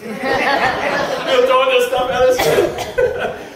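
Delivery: slow, laughing through the words. Real, not acted. Speaker to audience, laughing at the memory. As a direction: giggle it out, barely able to speak.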